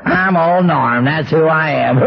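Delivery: slow, drawn-out mocking echo of his brag; wife's mocking mimicry. Wife mocks her drunk husband's brag, slow and drawn out. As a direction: stretch each word out to make fun of him. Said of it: "she would mimic me as only the way them Irish women can do it".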